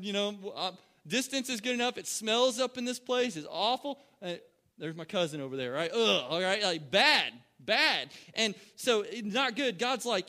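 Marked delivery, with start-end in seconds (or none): 5.9-6.2 loud mock groan of revulsion; hammed-up yuck noise; disgusted ugh. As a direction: recoil from an awful stench. Disgust at smell of bodies.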